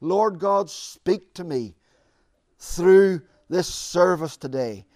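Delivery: earnest model prayer, rising on each through; demonstrated heartfelt petition; sample prayer. Shown as a demonstration. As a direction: pray it aloud as an example for the congregation. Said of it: "Come praying".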